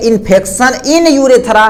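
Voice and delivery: very slow, word by word for writing down; slow dictation. Shown as a demonstration. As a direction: dictate it slowly to the class. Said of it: "तब बोलेंगे".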